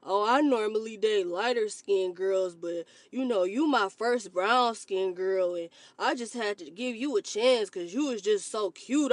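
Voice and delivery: lightly voiced smug suitor; mock a smug date bragging; imitating a colorist man. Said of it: "I don't wanna hear".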